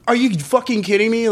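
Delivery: retold outrage. Retold fury at being shut out.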